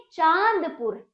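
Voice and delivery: चांदपुर with a long nasal चां; careful teacher's demo of चांदपुर; model pronunciation. Shown as a demonstration. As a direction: hold the चां in चांदपुर for pupils to repeat. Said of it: "बोलिए".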